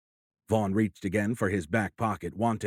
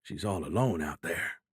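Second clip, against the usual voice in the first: softer, lower, choked up; choked words; 3 semitones lower, 4 dB quieter than usual. A narrator's reading. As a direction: force the words past a lump in the throat. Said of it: "McCree said in choked words".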